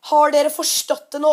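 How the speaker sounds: loud, scolding yell from the dock; mock yell of an angry old man; angry shout. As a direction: bark it at the boys. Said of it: "kommer fra brygga og sier".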